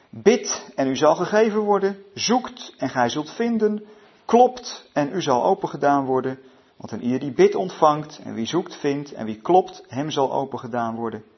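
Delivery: emphatic, measured Bible reading; scripture reading. A narrator's reading. Preacher reads famous verses aloud to the group, solemn scripture reading. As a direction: punch each command, then pause.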